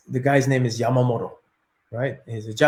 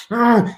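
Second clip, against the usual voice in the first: flustered grunt; 7 semitones higher, 4 dB louder than usual. Retold or imitated. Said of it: "I get flustered".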